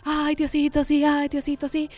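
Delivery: pleading prayer. Retold or imitated. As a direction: beg God together, earnest and a bit comic. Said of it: "todo el mundo se puso así a rezar".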